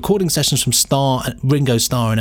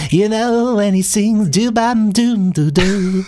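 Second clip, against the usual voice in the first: higher, slow imitation of a rock singer; impression of a singer; 9 semitones higher, slower than usual. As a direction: do the singer talking then singing. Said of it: "he talks like this".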